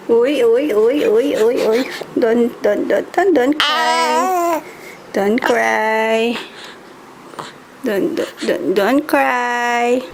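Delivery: soothing. Real, not acted. Soothing crying baby.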